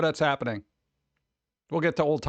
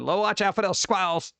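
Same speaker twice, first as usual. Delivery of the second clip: put-on southern accent; 3 semitones higher than usual. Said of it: "It had, like, the southern accent".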